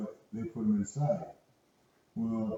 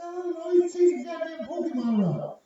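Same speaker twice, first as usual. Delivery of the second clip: retold exasperation; 6 dB louder than usual. Retold exasperated reply to boss.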